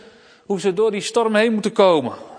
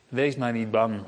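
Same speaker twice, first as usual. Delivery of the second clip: softer, lower and reassuring; soft comfort; 7 semitones lower, 4 dB quieter than usual. Acted. Jesus comforting disciples in the storm, low and gentle. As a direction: hush them gently, not afraid.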